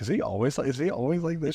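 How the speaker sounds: mock bewilderment, pitch climbing; imitated puzzled question. People they meet ask the girlfriend about him, puzzled.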